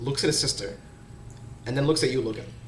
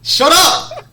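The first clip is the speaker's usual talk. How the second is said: much higher, loud laughing yell; laughing shout; 12 dB louder than usual. Real, not acted. Laughing protest at teasing friend.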